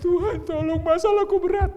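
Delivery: high, loud wailing prayer; hammed-up sobbing plea; mock crying. Believer weeping in the bedroom begging God, mock crying. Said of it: "saudara nangis gitu di kamar".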